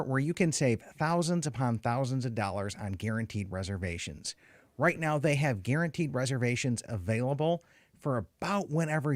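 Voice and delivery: lively, measured sponsor read; podcast ad read. Real, not acted. Host reads the rental store's ad to listeners, ad read.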